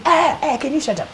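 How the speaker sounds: a high, sharp ah ah, then shut up; annoyed retort. Retold or imitated. Young sister silencing a tactless visitor, high indignant retort. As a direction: cut the visitor off in irritation.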